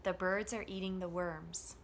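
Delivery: three beats on BIRDS, EATING, WORMS; THE and ARE light, squeezed between the stressed words; steady stressed rhythm. Shown as a demonstration. Teacher adding function words in drill, same steady rhythm. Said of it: "the rhythm is going to stay the same".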